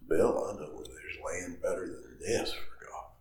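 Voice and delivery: imitating Doug's gravelly voice; hushed gravelly rasp. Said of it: "in his very gravelly voice".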